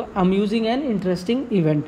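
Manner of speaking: slow dictation. Shown as a demonstration. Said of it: "teacher giving the definition".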